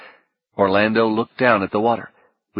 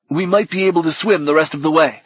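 fighting back panic; 7 semitones higher, 3 dB louder, faster than usual. A narrator's reading. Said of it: "Clearly fighting back panic".

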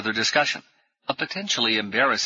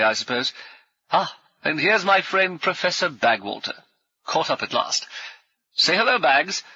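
hearty ex-officer. Acted. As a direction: bluff old soldier greeting new friends. Brummond speaks, named by narrator.

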